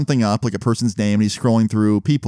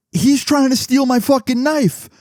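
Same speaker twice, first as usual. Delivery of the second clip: outraged disbelief; 12 semitones higher than usual. Retold or imitated. Narrating to viewers how Jeremy tried to steal his knife, in outraged disbelief. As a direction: spit it out like you can't believe what you're seeing.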